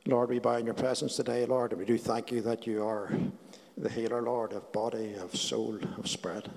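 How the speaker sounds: soft, reverent prayer voice; healing prayer. Acted. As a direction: pray it gently, fading to a hush.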